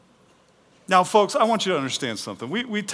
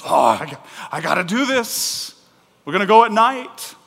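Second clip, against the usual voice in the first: mock-nervous, louder hesitant groan; fearful Gideon; 5 semitones higher, 7 dB louder than usual. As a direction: stammer out a reluctant plan. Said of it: "Gideon's so fearful".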